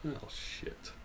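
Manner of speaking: breathy under-the-breath oh shit; whispered curse. Real, not acted. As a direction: mutter it to yourself in dismay. Sudden setback in the game.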